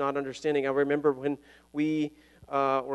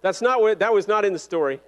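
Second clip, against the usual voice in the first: laughing; 5 semitones higher, 6 dB louder than usual. Real, not acted. Laughing at running out of time.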